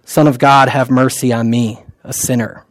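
soft, low, prayerful murmur; hushed, fading Jesus prayer; quiet prayer. Shown as a demonstration. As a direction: pray it softly to yourself. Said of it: "which I say to myself often".

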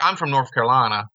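imitated Southern accent from a film; movie Southern accent. Quoting The Wood to co-hosts, mock Southern accent. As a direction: do a movie character's Southern twang. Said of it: "say it like he did in The Wood".

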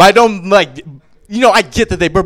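normal talking voice

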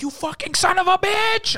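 high, slow, loud retold yell; hammed-up scream of betrayal; mock scream. Waiter catching coworker eating salads, mock screaming. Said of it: "I start screaming at him".

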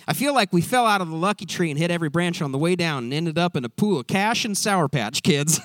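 quick, lightly put-on Southern accent. Quoting Ted's favorite saying in a mild Southern accent. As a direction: rattle off a folksy Southern saying. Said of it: "do it in a Southern accent".

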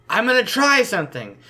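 yelling. Acted. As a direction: yell it across the room. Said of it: "I yell at Ozark".

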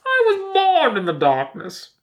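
slow, high, muffled through a hand; muffled Bane impression. Shown as a demonstration. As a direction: speak into your hand like Bane. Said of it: "I'll use my hand".

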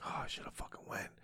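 whispered self-reproach; imitating a private, regretful mutter under the breath; talking to oneself. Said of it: "I'm talking to myself like".

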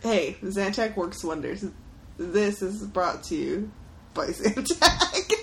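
slow mock sponsor plug, ending in laughter; mock ad read. Joking that Zantac sponsors the show, slow mock ad read. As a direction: draw out a joke sponsor tag.

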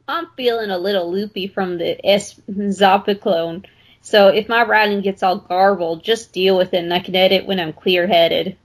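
lightly put-on Southern accent. Reader voicing a medicated patient's writing, light Southern accent. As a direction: read it with a hint of a Southern accent. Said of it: "turn into a Southern accent".

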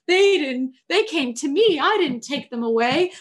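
loud, high protest; mock heated daughter arguing with her mom; defensive argument. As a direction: push back hard at mom.

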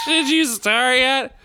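laughing. Acted. Improvised judge scene.

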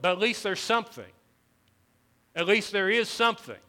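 high, loud, forceful pulpit voice; impassioned preaching. Real, not acted. Pastor urging his church to have something, impassioned preaching. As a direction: preach it loud and high, driving each phrase home.

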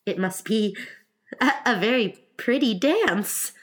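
hesitant, halting politeness; timid. Acted. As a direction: falter politely before the compliment. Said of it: "said Alice timidly".

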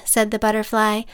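plain reading voice

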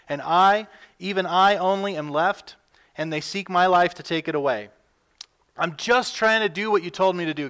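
a hint of a desperate prophet; pleading prophet. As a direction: read it as Elijah pouring out his complaint. Elijah's lament read from scripture.

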